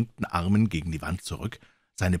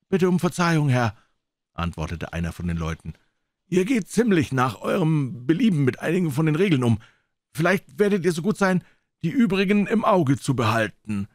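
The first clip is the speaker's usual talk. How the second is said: sailor's voice, higher, mock-polite; surly pirate spokesman; 6 semitones higher than usual. A pirate complains to Silver for the crew. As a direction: complain with false courtesy.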